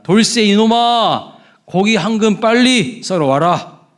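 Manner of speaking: loud, slow, high commanding bark at a servant; bossy nobleman's order. Retold or imitated. Nobleman barking an order at the butcher Dolsoe. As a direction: order the butcher around like a haughty lord. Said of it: "이렇게 명령을 했답니다".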